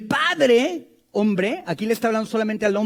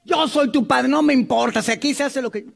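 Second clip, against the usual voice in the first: louder, mildly domineering father; bossy father; 3 semitones higher, 4 dB louder than usual. Retold or imitated. Preacher imitates an authoritarian father, mock domineering. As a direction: lay down the law like a stern dad. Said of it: "No escuchar a tus hijos".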